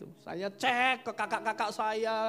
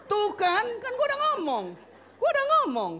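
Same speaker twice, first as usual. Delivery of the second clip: teasing wife; 9 dB louder than usual. Retold or imitated. Wife teasing stressed husband again.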